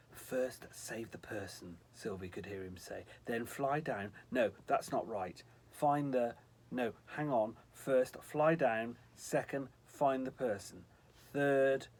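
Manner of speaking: a hint of a muddled angel muttering. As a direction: mutter the list to himself, confused. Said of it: "muttering to himself".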